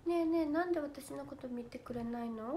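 fake cute pouty voice. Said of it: "それ萌え台詞ってことかな".

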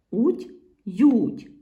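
"уть-ють" loud, as two separate endings; emphatic isolation. Shown as a demonstration. Teacher isolating the ending for pupils, emphatic. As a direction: punch out УТЬ, then ЮТЬ.

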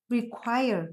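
"require" stressed on QUIRE; stress on second syllable. Shown as a demonstration. Teacher models word stress for class, "require" stressed on second syllable. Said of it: "âm tiết số hai nhá".

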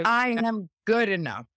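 believe every word of I am good enough; total belief. Shown as a demonstration. Leading the affirmation with gusto, firm and sure. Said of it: "say it with total belief in yourself".

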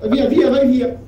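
loud, high shout of get away. Acted. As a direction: yell at the creature to leave. Shooing the monster away.

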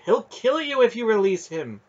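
high, loud, urgent warning; stern command. A narrator's reading. Aunt warning the boy not to release him, stern. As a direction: warn him forcefully. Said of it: "Aunt Paul's stern voice commanded".

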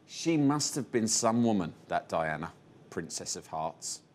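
a hint of a bleepy alien. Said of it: "in its bleepy alien voice".

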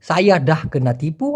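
very slow, low-key Malay; slow Malay short form. Shown as a demonstration. Teacher repeating Malay short form, very slow. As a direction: read the short form slowly. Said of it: "teacher models Malay phrase".

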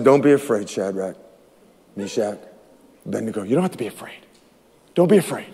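low, hushed, spaced-out names; God's quiet reassurance. Acted. God calms three men in the fire, hushed reassurance. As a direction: soothe each man softly by name. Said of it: "God said".

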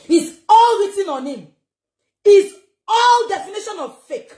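mocking laughter. Real, not acted. Mocking laugh while insulting.

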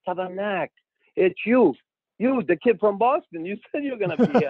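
high, loud mock astonishment; astonished recognition. Veteran recognising the rookie at the face-off, astonished. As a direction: imitate a player amazed, pitched well up.

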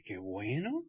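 low, soft, flat-out unimpressed; deadpan. Retold or imitated. Hearing the prize for the next convention, low and deadpan. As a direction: mutter it under your breath.

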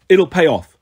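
loud sharp snap; snapping. Acted. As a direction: snap back impatiently. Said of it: "Luke snapped".

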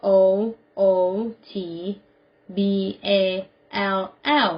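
letter by letter, slowly; spelled out. Shown as a demonstration. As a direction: spell it out with a pause after each letter. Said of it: "Spell it". (สะกดทีละตัวอักษรช้า ๆ)

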